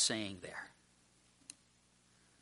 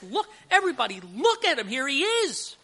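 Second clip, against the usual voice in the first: high, excited call to a crowd; urgent announcement; 11 semitones higher than usual. Acted. Preacher voicing the announcement of Jesus to everybody, urgent call. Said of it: "That's what he's saying".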